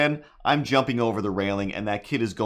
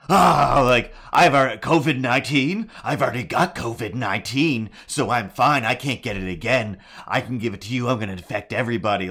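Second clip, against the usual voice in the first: put-on loud bratty kid yell; kid screaming; 5 dB louder than usual. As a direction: yell it like a brat taunting. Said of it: "screaming at me".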